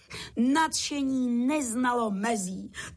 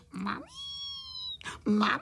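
wailing for mummy; 3 dB quieter than usual. A narrator's reading. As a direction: bawl for mummy like tiny children. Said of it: "zase brečeli na celé kolo a volali".

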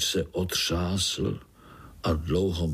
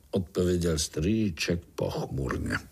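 plain reading voice

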